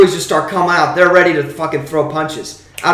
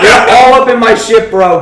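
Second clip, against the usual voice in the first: the bro line again, louder and laughing; louder mocking repeat; 3 semitones higher, 5 dB louder than usual. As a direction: punch the repeat up through a laugh. Repeats douche line with more force.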